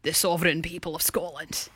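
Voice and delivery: softly imitated Scottish accent. Host mimicking the politician's oath, Scottish accent. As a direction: echo the clip with a light Scottish lilt. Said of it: "I sounded more Scottish than that".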